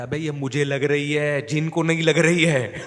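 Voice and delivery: slow, pained plea half laughing; pleading beaten man. Retold or imitated. Fake possessed man begging teacher to stop, slow pained whine. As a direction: drag it out like it really hurts.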